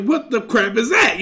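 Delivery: acted-out double take, dragging the words; appalled disbelief. Man helping a stranger looks over, appalled disbelief. Onlooker shocked at what he sees.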